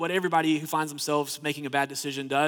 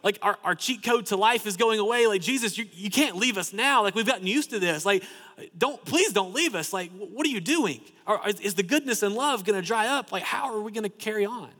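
pleading disciples; 4 semitones higher than usual. Acted.

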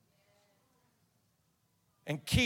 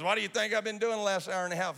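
faster, higher, pushing the question home; pressing the prophet's question; 5 semitones higher, 3 dB louder, faster than usual. Retold or imitated. Scene: the prophet insists to the doubting preachers, faster and higher. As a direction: lean in and rush it, insisting. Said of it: "He goes".

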